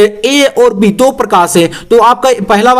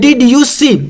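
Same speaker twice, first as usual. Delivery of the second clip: slow dictation; 3 semitones higher, much slower than usual. Shown as a demonstration. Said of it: "dictating slowly".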